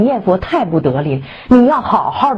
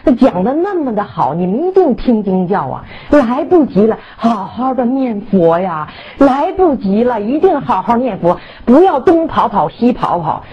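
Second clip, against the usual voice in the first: urgent exhortation; 4 semitones higher than usual. Retold or imitated. Devotee urging everyone that time is running out, pleading urgently. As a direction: implore them, stretching the key phrases. Retold urgent plea to practise.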